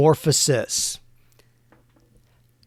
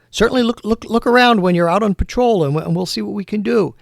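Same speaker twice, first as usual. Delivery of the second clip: a higher, lively heroine voice for the cat; cat heroine urging her partner, raised voice; 6 semitones higher than usual. Acted. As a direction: play the cat as an upbeat partner, pitched higher. Cat voiced as female hero.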